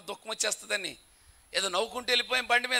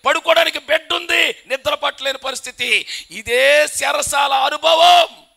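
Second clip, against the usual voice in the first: a rising, shouted preacher's lament, higher and much louder; preaching at full force; 8 semitones higher, 11 dB louder than usual. Real, not acted. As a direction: build the list to a full pulpit cry. Preacher builds to a shouting climax. (పూర్తి స్థాయిలో బిగ్గరగా ప్రసంగం)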